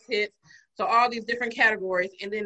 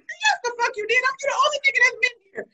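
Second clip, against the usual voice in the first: retold angry retort; 13 semitones higher, 4 dB louder than usual. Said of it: "I'm like".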